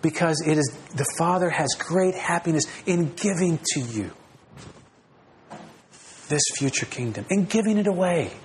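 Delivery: a hint of a loving father reassuring; gentle reassurance. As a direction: pastor voicing God telling his people not to worry. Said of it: "a God who looks at us and says".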